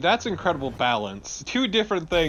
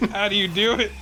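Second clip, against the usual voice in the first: high, a bit louder, fake amazement; mock awe; 7 semitones higher, 3 dB louder than usual. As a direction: act stunned by his suffering. Mocking friend's "cold" Florida weather.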